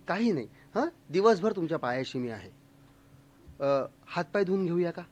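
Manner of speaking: soft, courteous and soothing, a hint of a refined lady; Waheeda Rehman's gentle hostess voice. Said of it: "ती म्हणली".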